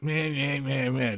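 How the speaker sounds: dismissive meh meh; bored mocking drone; mocking blah blah. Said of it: "comes across as meh".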